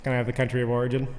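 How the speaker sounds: quick, hushed contestant asking for the origin; spelling bee contestant. Pretend. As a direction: stall like a nervous spelling bee kid. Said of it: "spelling bee".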